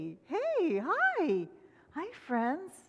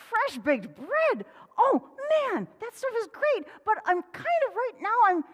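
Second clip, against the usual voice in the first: much higher rabbit stalling; 10 semitones higher, 5 dB louder than usual. Acted. Rabbit dodging work, high voice. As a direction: gush then trail off with excuses. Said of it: "Rabbit said".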